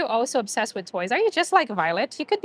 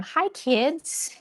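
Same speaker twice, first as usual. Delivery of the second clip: higher, light re-enacted greeting; greeting the small dogs; 4 semitones higher than usual. Visitor shows how she greets puppies, higher cheery call. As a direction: lift it like hailing little ones. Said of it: "So I always tell them".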